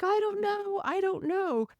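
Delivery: high-pitched imitation of a little girl; crying little girl. Crying little girl answers her dad, imitated high voice. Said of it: "And she's like".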